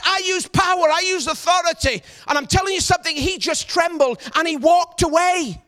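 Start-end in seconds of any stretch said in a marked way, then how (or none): 0.0-2.0 firm declaration. Retold or imitated. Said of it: "I told him straight".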